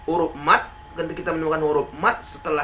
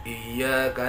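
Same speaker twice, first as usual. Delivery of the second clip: "iyyaka" low and level, no stress; flat reading; 5 semitones lower, 4 dB quieter than usual. Shown as a demonstration. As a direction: keep "iyyaka" monotone. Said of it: "nah itu kan datar". ("iyyaka" datar tanpa tekanan)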